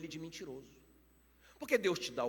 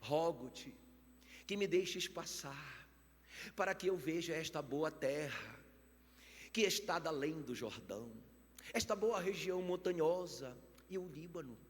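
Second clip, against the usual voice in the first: oração lida; slower than usual. Acted. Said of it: "essa oração famosa do Moisés".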